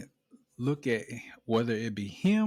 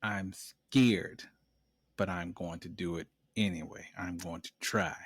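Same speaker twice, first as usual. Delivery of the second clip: timid son; 5 semitones lower, 6 dB quieter than usual. Retold or imitated. Voicing a scared son.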